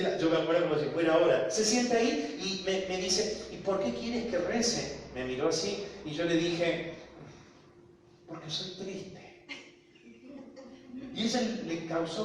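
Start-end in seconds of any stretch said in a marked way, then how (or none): 3.5-4.9 high, slow questioning voice; retold puzzled question, pitched up. 8.3-9.2 small, soft, high voice; retold meek answer; timid confession. Retelling his own timid answer.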